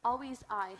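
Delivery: Always said loud and firm; stress on Always. Shown as a demonstration. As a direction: lean hard on Always. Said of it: "always have "I".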